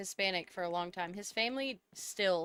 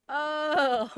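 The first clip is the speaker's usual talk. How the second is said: surprised realization; 7 semitones higher, 7 dB louder than usual. Retold or imitated. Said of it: "And he's like".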